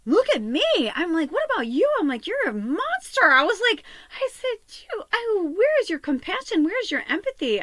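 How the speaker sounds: high, loud voice close to tears; tearful angry confrontation. Retold or imitated. To her partner after his insults, tearful loud anger. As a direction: confront him, voice cracking with hurt. Retold fight, crying heard.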